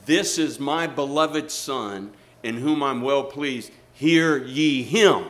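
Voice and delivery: slow, solemn, building to a loud command; a booming heavenly voice pronouncing; voice of God. Acted. Preacher voicing God to the congregation, slow and booming.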